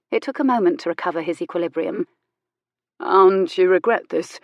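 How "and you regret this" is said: careful. Acted. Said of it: "he began carefully".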